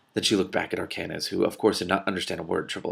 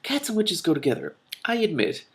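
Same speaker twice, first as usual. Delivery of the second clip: scowling concession; 10 semitones higher than usual. A narrator's reading. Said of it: "scowling at the newcomer".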